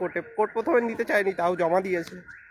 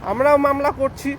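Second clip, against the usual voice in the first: raised voice; 4 semitones higher, 4 dB louder than usual. Real, not acted. Urgent appeal for unity to followers.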